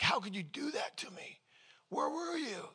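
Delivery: whispered, wounded complaint rising high at the end; hurt whisper. Retold or imitated. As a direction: whisper it like a hurt prayer of accusation. Pastor complaining to God, retold.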